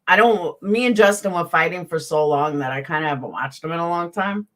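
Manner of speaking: eating while talking; talking through a mouthful of soup; mouth full. Real, not acted. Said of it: "I'm eating egg drop soup".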